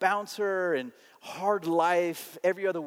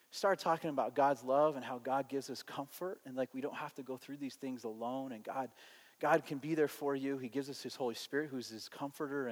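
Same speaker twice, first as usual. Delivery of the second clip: soft, low-key comforting talk; loving, relational; 4 semitones lower, 8 dB quieter than usual. Retold or imitated. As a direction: share comfort gently, one friend to another. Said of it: "in a very just sort of loving, relational way".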